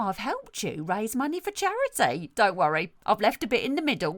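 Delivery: self-satisfied salon owner, lightly played; lightly voiced brusque hairdresser. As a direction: play a breezily tactless hairdresser. Sketch as salon owner Sue.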